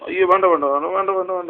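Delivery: run-together chant of no, no; hurried soothing. Real, not acted. Parent hushing the crying child, hurried soothing. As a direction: soothe with a quick string of repeats.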